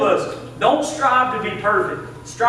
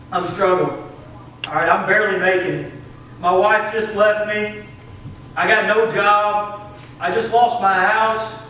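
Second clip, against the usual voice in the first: downcast confession; 4 semitones lower than usual. Acted. Church member admitting hard times to Brother Neil, downcast.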